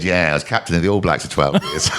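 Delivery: punchline delivered through laughter; can't hold back the laugh on it. Retold or imitated. Punchline retold amid laughter.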